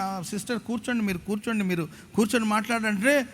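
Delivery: hushed plea to sit; quiet calming. Retold or imitated. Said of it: "నేను".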